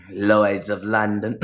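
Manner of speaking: slow, put-on British pronunciation; mock British accent. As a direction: imitate a British accent, drawn out. Mocking a British-sounding phrase.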